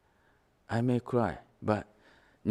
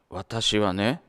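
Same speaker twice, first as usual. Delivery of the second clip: ordinary talk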